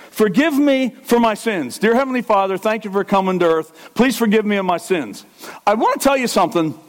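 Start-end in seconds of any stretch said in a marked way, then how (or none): 0.1-5.3 higher-pitched blanket prayer, acted out; mock prayer. Preacher showing the congregation how not to confess, mock prayer. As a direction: recite a wrong-way prayer, pitched up. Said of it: "You're not doing this".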